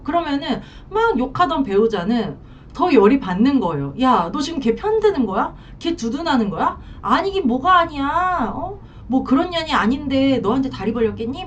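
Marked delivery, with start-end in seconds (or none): 4.0-11.4 mock furious retort. A wife snapping at her husband for defending the mistress, mock angry. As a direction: spit it back, accusing and fed up. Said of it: "화가 더 나는 거죠".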